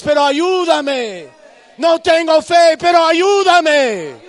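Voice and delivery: de ruego bajo a clamor agudo y muy fuerte; súplica que crece. Acted. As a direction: empieza contenido y termina gritando ayúdame. Desperate prayer to God. (el creyente clama a Dios, de murmullo a grito)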